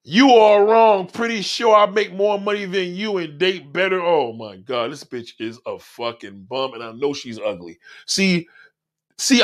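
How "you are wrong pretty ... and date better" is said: mocking snooty read. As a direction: sneer it out like a stuck-up hater. Mock-reading commenter's reply.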